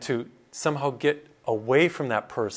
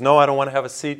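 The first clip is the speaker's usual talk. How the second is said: upset refusal; 7 dB louder, much faster than usual. Retold or imitated. Troubled man refuses to sit.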